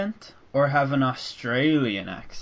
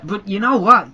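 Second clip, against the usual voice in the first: normal talking voice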